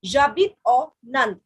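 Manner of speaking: J'habite au Nand said slowly, syllable by syllable; careful French model phrase. Shown as a demonstration. Teacher modelling French for students, slow and clear. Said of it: "It means I live in".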